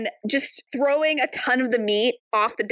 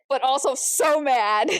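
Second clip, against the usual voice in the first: ordinary talk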